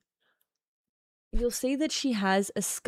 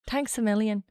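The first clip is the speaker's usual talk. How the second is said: short Irish-accented thanks; light put-on Irish lilt; practising Irish accent. Shown as a demonstration. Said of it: "Why are we doing accents?".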